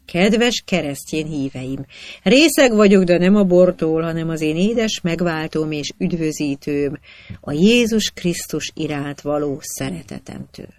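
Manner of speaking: measured sermon opening, swelling then settling; unctuous dignity. A narrator's reading. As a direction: preach it with mock-solemn dignity. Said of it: "kennetes méltósággal kezdi beszédét". (kenetes méltósággal prédikálva)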